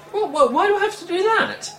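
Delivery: startled outburst at the forfeit; shocked disbelief. Acted. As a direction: blurt it out in shock.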